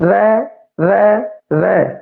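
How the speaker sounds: ਰੈ with the tongue lightly touching the teeth, repeated; teacher pronouncing ਰੈ to show the tongue place; sound demo. Shown as a demonstration. Teacher showing students where the tongue goes, careful demo. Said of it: "ਜੀਭ ਹੈ ਜਿਹੜੀ ਦੰਦਾਂ ਨੂੰ ਛੋ ਰਹੀ ਹੈ".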